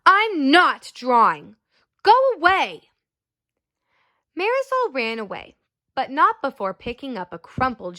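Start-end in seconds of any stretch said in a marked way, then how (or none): 0.0-2.9 sneering. Acted. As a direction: sneer at the little sister to leave. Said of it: "Raymond sneered".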